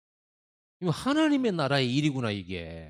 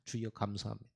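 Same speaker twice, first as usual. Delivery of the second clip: mock grateful prayer; 3 semitones lower, 8 dB quieter than usual. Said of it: "이렇게 됐겠죠".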